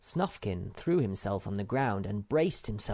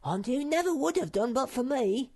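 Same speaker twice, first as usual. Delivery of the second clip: high, smug little squeak; self-satisfied boast; complacent; 4 dB louder than usual. A narrator's reading. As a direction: brag like a pleased pet. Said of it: "remarked Sniff complacently".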